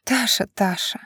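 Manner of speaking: fondly shaking her head at a stubborn daughter; a hint of a smile in the voice; faint smile. A narrator's reading. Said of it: "едва уловимо заулыбалась мне в шею мама".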